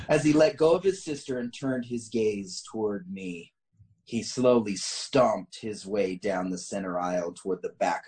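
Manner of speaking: measured, deliberate story reading; story narration. A narrator's reading. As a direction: read the tale out with emphatic phrasing. Reads a written story aloud.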